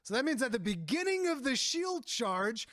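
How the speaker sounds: slow, emphatic mock outrage; indignant excitement. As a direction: lay it out like a grievance. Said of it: "And I was like".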